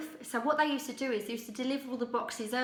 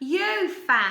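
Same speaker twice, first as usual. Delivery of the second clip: put-on very loud, squeaky little-kid Cockney accent; 5 semitones higher, 9 dB louder than usual. Retelling a four-year-old calling out from the back of the crowd, squeaky little-kid Cockney accent. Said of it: "from a little four-year-old little squeaky voice, in the most funny Cockney accent".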